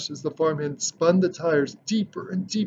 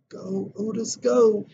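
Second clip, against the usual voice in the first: higher, eager cheer for the tractor; 5 semitones higher than usual. A narrator's reading. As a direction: urge him on with a lift.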